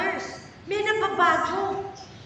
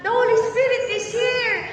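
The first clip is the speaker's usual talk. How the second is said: mock worship cry; 6 semitones higher, 6 dB louder than usual. Mocking emotional worshipper's cry.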